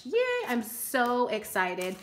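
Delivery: ordinary delivery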